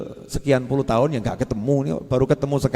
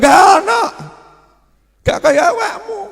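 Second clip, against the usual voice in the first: pitched way up, loud and lively; high excited exclamation; 6 dB louder than usual. Real, not acted. Preacher exclaiming to the congregation, high and excited. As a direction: squeal it out in disbelief.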